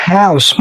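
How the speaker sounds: "house" with an ow glide; model pronunciation. Shown as a demonstration. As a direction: say "house" clearly. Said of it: "أو كلمة". (نطق house)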